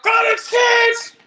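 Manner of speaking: booming shout, high and slow, like thunder; the Lord commanding, full force; thundering voice of God. Retold or imitated. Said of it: "just like thunder in my head".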